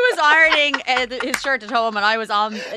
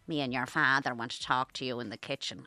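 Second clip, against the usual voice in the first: lower, serious parent tone; stern mother voice; 7 semitones lower, 6 dB quieter than usual. Retold or imitated. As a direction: sound like a mum who knows. Parent calls her to kitchen.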